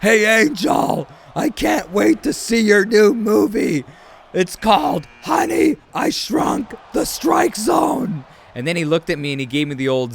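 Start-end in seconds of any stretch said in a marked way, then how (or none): 0.0-8.2 high, loud, drawn-out heckle; heckling shout. Retold or imitated. Fan shouting a movie joke at the umpire, loud heckle. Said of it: "I shouted out".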